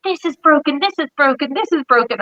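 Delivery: imitating the car's alarm; mock car warning. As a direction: play the nagging dashboard. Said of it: "every single light goes on in my car being like".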